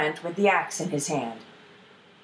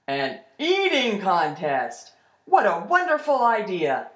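delighted troll. Acted. Troll relishes the ash lad's challenge, delighted. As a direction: savour the idea as a troll.

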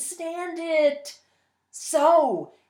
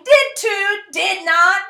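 put-on squabbling kids; 8 semitones higher, 7 dB louder, slower than usual. Squabbling children voiced in story.

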